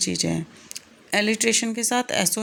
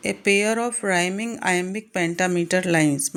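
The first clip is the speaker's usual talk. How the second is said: slow dictation; much slower than usual. Shown as a demonstration. Teacher reads definition slowly.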